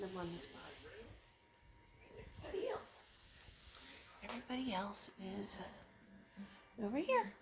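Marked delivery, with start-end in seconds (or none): 2.4-7.3 hushed whisper; soft unvoiced whisper. Real, not acted. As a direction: whisper so the shy cat stays calm. Whispering near shy cat.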